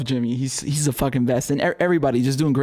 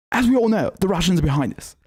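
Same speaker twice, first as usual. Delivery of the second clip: mock Mehdi Hassan; 4 semitones higher than usual. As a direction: play a self-important TV journalist, half-mocking. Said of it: "speak like Mehdi Hassan".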